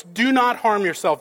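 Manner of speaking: understated call to stop him; mild retold cry. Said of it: "Paul cries out in a loud voice".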